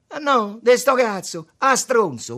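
high, loud insult; angry yell. A narrator's reading. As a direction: yell it right at him. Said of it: "urlò Tommaso". (urlo rabbioso)

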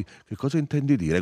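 high-pitched, alarmed retort; agitated question. A narrator's reading. Firmo questions the shouting narrator, agitated. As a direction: throw the question back, high.

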